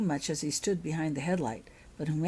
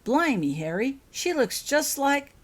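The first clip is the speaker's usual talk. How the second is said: mild surprise; 8 semitones higher, 7 dB louder, slower than usual. Acted. Hagrid astonished at Holly.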